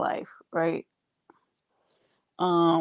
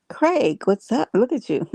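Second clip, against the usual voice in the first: excited greeting; 5 semitones higher than usual. Real, not acted. Greeting her pet excitedly.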